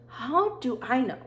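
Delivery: mocking retort. Mocking the leave-of-absence staff.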